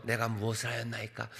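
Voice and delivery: soft, low, composed reading; calm, dignified. Shown as a demonstration. David answering his brother, calm and dignified. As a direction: say it serenely, too mannerly to argue. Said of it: "뭐 그렇게 평온하게".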